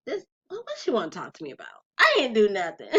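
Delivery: high startled squeak of disbelief; startled what. Retold or imitated. Daughter startled when mom calls her over, high and nervous. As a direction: caught off guard, voice jumps up. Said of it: "And I'm like".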